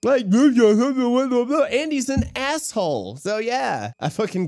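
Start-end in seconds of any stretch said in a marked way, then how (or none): 0.0-3.2 slow, high, laughing rant. Real, not acted. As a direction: laugh through the outrage. Laughing rant about Wallace.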